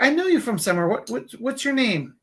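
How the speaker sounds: high-pitched imitation of a puzzled stranger; insistent stranger. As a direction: grope for the name, slowing on the repeats. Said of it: "And she's like".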